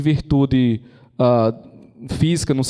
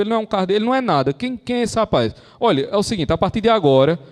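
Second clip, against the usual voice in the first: indignant, higher-pitched mock outrage; annoyed cardinal; 6 semitones higher than usual. Cardinal fed up with everyone consulting Bernardo, indignant. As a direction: act out an exasperated cardinal laying down the law. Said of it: "um cardeal ficou puto e fez".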